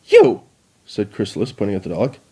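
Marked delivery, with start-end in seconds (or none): 0.1-0.4 very high, loud accusation; furious shout. Acted. Queen points accusingly.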